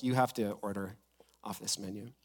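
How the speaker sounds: imitated hush-hush whisper; secretive whisper. Voices staff sharing secret menu.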